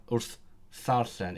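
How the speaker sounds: "ddarllen" said slowly with a th sound; th version. Shown as a demonstration. Explaining Welsh mutation to the stream, slow careful pronunciation. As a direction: draw out "wrth ddarllen" so the dd comes out as th. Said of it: "It would become the th version".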